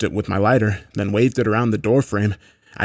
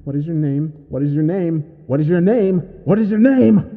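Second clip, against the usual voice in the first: creature's question climbing from high to higher and louder; rage building; 6 semitones higher, 5 dB louder than usual. A narrator's reading. Creature knocking nonstop at the door, rage building. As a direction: repeat it with mounting rage, ever higher. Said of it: "rage building in that voice".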